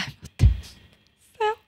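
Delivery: high, strained voice on the edge of crying; near tears. Real, not acted. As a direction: blurt it out like you're about to break down. Mother overwhelmed, near tears.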